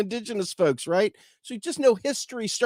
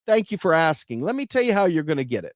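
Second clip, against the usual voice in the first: lightly voiced eager king; hammed-up pleased ruler; 2 semitones higher than usual. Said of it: "King Arthur goes".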